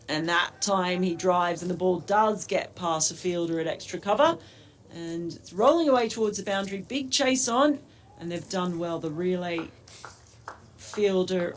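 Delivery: radio play-by-play, rising with the action; live commentary. Acted. Commentator calling the over for radio listeners, lively play-by-play. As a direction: call each ball as it happens.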